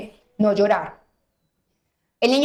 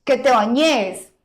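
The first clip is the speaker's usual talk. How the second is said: drawn-out insistence; much slower than usual. Retold or imitated. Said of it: "ella me ve desespera".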